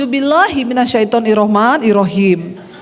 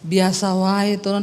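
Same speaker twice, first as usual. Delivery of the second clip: lower, slow, soft protest; husband's startled low reply; 5 semitones lower, 5 dB quieter than usual. Retold or imitated. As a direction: ask her to just talk normally. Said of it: "dia bilang gini". (suami kaget minta bicara biasa saja)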